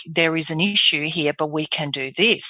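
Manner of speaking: reassuring, constructive delivery; positive. Shown as a demonstration. Doctor giving a patient difficult news, positive. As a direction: give bad news with hope. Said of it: "it can sound very positive".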